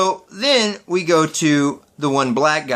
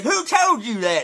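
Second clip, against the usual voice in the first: mock mad redneck; 5 semitones higher than usual. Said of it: "He was mad".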